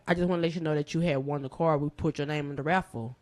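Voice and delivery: lightly imitated deep-voiced caller; a hint of a deep phone voice; Trader Truth. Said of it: "have this really deep voice".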